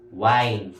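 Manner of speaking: "wine" with a long "eye" glide, pitched low; long I sound. Shown as a demonstration. Teacher giving the last one-syllable word, low, clear long I. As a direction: model "wine" alone, falling. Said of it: "you have to pronounce it as I".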